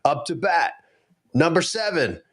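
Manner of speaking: announcer call. Retold or imitated. Father imitating the announcer calling his son, mock announcing. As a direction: lightly announce the batter. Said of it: "He gets up".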